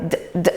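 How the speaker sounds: D as a bare voiced sound; short repeated D, not the letter name; isolated consonant. Shown as a demonstration. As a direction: sound out D twice. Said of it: "En parlant robot".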